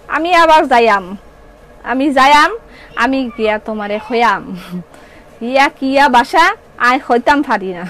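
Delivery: halting try at Sylheti dialect; attempted Sylheti. Shown as a demonstration. Seller unsure of her Sylheti, trying it for viewers, attempted Sylheti. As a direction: feel your way through Sylheti, pausing between phrases. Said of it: "সিলোটি".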